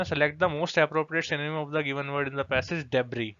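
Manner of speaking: very slow, deliberate reading of the question; slow read-aloud. Shown as a demonstration. Teacher slowly reading the exam question to students. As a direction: spell out the question word by word.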